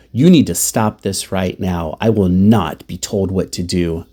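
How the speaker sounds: firm, emphatic imitated refusal; digging in hard. Mother refuses to be told what to do, firm. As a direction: lay down the law, mildly indignant. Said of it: "She digs in hard".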